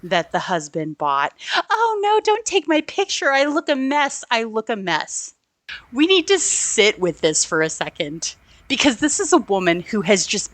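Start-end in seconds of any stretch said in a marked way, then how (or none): 1.7-5.3 high mock-flustered plea, easing down; flustered wife. Wife begs a reporter not to take her picture, mock-flustered. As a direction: imitate a vain, fretting wife, starting very high. Mimics wife dodging the photographer.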